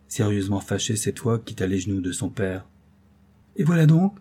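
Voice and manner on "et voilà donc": exclaiming. Acted. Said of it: "s'écria-t-elle".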